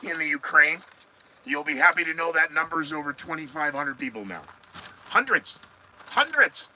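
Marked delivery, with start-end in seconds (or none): 5.1-6.7 high, loud sarcastic gasp of a word; "Hundreds" flung up high in mock disbelief; mock astonishment. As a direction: act shocked at a tiny number. Repeats the mocking count.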